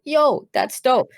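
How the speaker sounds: high, slow, starstruck; a gamer spotting a wild Vaporeon; mock awed excitement. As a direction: savour the find. Spotting a rare Pokemon.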